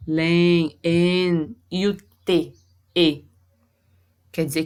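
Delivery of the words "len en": "Len", then "en" alone, drawn out as one nasal vowel; nasal sound demonstrated. Shown as a demonstration. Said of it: "eles representam um único som".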